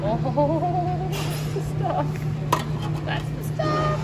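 delighted. Real, not acted. Vlogger finding her favourite buffet dish, high gleeful squeal. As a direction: squeal it like you found treasure.

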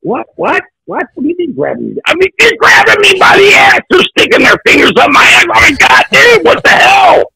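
high-pitched, hammed-up indignant panic; panicked outrage. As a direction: act out a frantic, incredulous protest. Retold protest at being grabbed.

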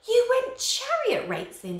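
high, loud, slow snap; snapped. A narrator's reading. Father snapping at his son for chariot racing. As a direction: bite the words off in anger. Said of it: "snapped Chrysius".

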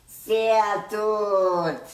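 put-on high, loud, beaming little girl; beaming toddler. A narrator's reading. Little sister proudly shows off her only phrase, beaming. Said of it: "sagt strahlend".

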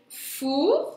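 "Fourmi" split into four, long pause, mi; syllable by syllable. Shown as a demonstration. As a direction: stretch "Fourmi" into two separate syllables. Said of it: "Deux syllabes".

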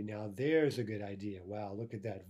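"Now THERE'S a good idea", weight on "there's"; very emphatic. Shown as a demonstration. Teacher showing how to point out a good idea, very emphatic. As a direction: punch "there's", then let "Wow, look at that" drop. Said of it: "to say very emphatically".

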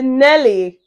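slow, measured question with a hint of authority; lightly voiced reality-show overseer; Big Brother. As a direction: draw the question out slowly. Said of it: "Biggie say".

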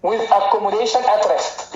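very slow, deliberate reading of the line; teacher rereading the definition slowly to the class; slow read-aloud. Shown as a demonstration. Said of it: "يلا نقرا السطر تاني".

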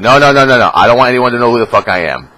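high, loud, frantic no-no-no; mock panicked refusal. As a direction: squeal it like someone begging not to be named.

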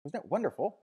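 high, enraptured exclamation; rapturous woman. A narrator's reading. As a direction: gush it high, in calm rapture. Fifi's rapture after the service.

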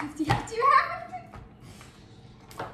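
stretched slow and high; slow drawn out. Pretend. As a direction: drag every syllable out. Repeats phrase slowly, drawn out.

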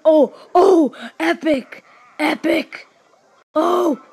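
excited whooping exclamations; thrilled. Real, not acted. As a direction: cheer it out, overjoyed. Thrilled reaction to game win.

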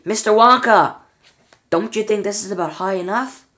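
high, loud, anxious call; a boy scared of the height calls out; frightened boy's cry. A narrator's reading. Charlie frightened at the height, calling high and loud. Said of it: "Even Charlie was beginning to feel frightened now".

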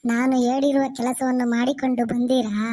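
lightly voiced theatrical ghost; ghost greeting children. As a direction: stretch the words in a mock-fond ghostly welcome. (ದೆವ್ವದಂತೆ ನಾಟಕೀಯವಾಗಿ ಎಳೆದು ಮಾತು)

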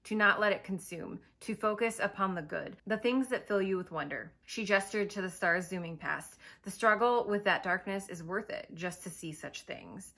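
measured story narration; understated audiobook-style narration; book reading. Acted. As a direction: read the passage aloud with quiet gravity. Reads a quote from book.

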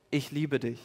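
softly, almost hushed; soft tender voice. Retold or imitated. Preacher voicing God speaking into the heart, hushed and tender. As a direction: lay it gently into the heart.

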